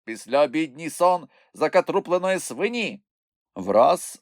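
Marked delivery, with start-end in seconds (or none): 0.0-3.0 high, loud taunting tirade; angry insults. A narrator's reading. Moomintroll provokes the poisonous bush, angry taunts. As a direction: hurl each insult with relish and force.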